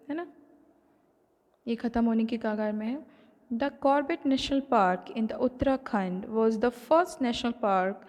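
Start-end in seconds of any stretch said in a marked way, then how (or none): 3.5-7.9 reading the textbook line aloud, slowly; measured read-aloud for the class. Acted. Teacher reading the book to students, slow and measured.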